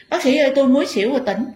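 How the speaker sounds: high, loud and fast, words tumbling out; urgent rushed plea. Retold or imitated. Fainting woman urging the doctor to see her, high and fast. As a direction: hurry the doctor along breathlessly.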